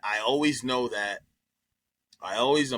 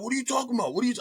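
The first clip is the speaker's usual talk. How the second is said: mock innocent denial; 10 semitones higher, much faster than usual. Friend keeps denying, voiced.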